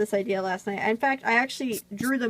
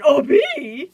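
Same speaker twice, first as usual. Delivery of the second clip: shrill sudden cry, way up high and loud; high squeal at a bee; 6 semitones higher, 11 dB louder than usual. Pretend. NCS yelping loudly at a bee buzzing round him. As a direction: yelp it like a startled cartoon fan.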